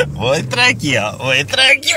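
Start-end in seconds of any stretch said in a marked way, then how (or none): 1.2-2.0 higher, breaking into laughter; can't keep a straight face while saying it; laughing. Real, not acted. Repeats the line laughing.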